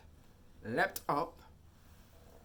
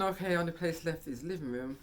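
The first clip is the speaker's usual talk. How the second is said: excited recalled thought; 5 semitones higher than usual. Retold or imitated. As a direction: kid sure of the next hiding spot. Retold hunt, next place.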